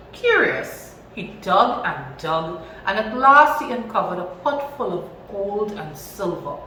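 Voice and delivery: put-on lively storybook reading for children; animated read-aloud story voice. A narrator's reading. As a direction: read it out like a teacher to a class.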